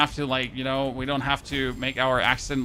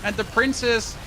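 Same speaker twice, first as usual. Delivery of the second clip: put-on gushing childhood self; 7 semitones higher than usual. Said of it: "in my memory, it's like".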